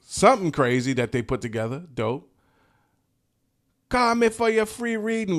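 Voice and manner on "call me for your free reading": high-pitched mock Jamaican accent; hammed-up Jamaican accent, pitched way up; Miss Cleo, fake Jamaican accent. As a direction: put on a fake Jamaican psychic's sales pitch. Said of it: "with her fake Jamaican accent".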